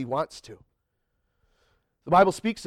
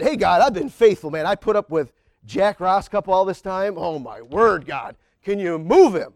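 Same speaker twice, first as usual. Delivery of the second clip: half-joking gripe aimed at God, louder; mock complaining prayer; 6 dB louder than usual. Preacher acting out his own grumbling prayer to God, louder. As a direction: whine to God that you've earned a favour.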